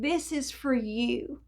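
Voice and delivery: the neighbor's soft, kind words; gentle slow offer. Retold or imitated. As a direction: say it quietly, like a gift. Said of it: "Even the way that my neighbor said it".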